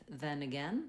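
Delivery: "then again" with matching eh vowels; practice phrase. Shown as a demonstration. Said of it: "great way to remember and practice".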